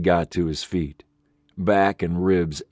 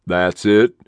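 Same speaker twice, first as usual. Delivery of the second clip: irritably; 4 dB louder than usual. Acted. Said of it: "Sheriff Briggs said irritably".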